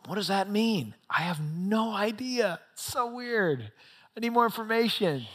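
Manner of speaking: mock confusion, pitch lifted; acted bafflement. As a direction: play someone mildly at a loss. Peter baffled by his vision, acted.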